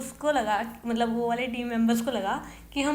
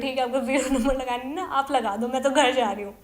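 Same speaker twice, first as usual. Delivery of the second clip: tearful outburst; 4 dB louder than usual. Retold or imitated. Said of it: "मैं रोते रोते बोल रही हूँ".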